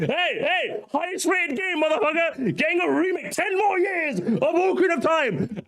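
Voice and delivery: high, taunting boast, last line slow; smug Ocarina fan. Retold or imitated. Ocarina fan bragging at other gamers, high taunting boast. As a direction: rub it in like a smug fanboy. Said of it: "an Ocarina guy saying".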